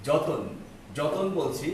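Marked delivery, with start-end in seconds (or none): 0.1-0.4 যতন said as jo-ton with the inserted vowel; pronouncing joton. Shown as a demonstration. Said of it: "যত্ন থেকে যতন". (যতন শব্দে ত আর ন এর মাঝে অ স্পষ্ট করে উচ্চারণ)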